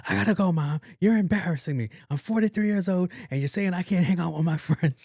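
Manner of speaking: high, put-on exasperated protest; imitated embarrassed daughter. Grown daughter trying to hang up on mom, mock embarrassed.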